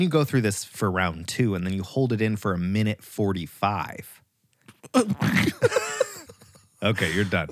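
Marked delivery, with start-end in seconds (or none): 4.8-6.2 high burst of laughter on release. Real, not acted. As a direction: laugh out as the breath breaks. Bursting out after breath-hold.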